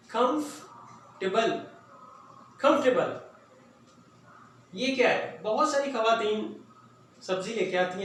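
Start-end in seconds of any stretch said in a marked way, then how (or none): 0.1-3.2 कंफर्टेबल drawn out slowly, every syllable clear; slow model pronunciation. Shown as a demonstration. Teacher models the word for students, slow and clear. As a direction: spell out कंफर्टेबल slowly for the class. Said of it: "मेरे साथ पढ़ें".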